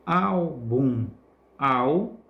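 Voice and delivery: Álbum split as ÁL-bum, then au alone; stressed syllable demo. Shown as a demonstration. Teacher pointing out the tonic syllable, Álbum broken up with ÁL stressed. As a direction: hold the first syllable of Álbum, then isolate au. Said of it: "pronunciamos com mais força também".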